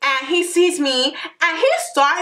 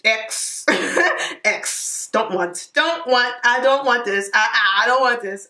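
flustered refusal; 2 semitones lower than usual. Retold or imitated. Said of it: "and I'm just like".

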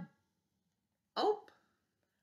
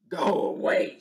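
shouted; 6 dB louder than usual. Acted. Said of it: "shouted the grouchy ladybug".

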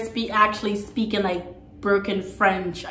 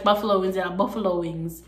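Jamaican accent; 3 semitones lower than usual. Shown as a demonstration. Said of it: "it's an accent".

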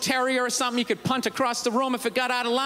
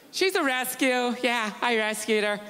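mock rescue-dog owner. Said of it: "I hate when people say that".

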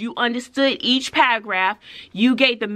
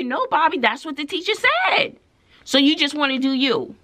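higher-pitched fed-up correcting; exasperated retort; 4 semitones higher than usual. Retold or imitated. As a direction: argue back in a high, exasperated voice. Retells arguing with Bobby.

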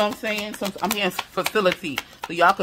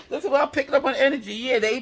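fast, higher, talking through laughter; laughing; 7 semitones higher, faster than usual. Real, not acted. Reader explains her reading to viewers, laughing. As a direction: rush it out still laughing.

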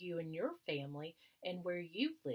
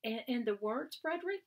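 louder, climbing to a very high excited Frederick; eager question; 7 semitones higher, 6 dB louder than usual. Acted. Mice begging Frederick for his words, excited high call. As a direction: leap up eagerly on the name.

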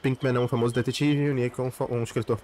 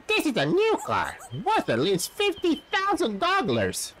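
angry driver; 5 semitones higher than usual. Acted. Driver brags about new car.

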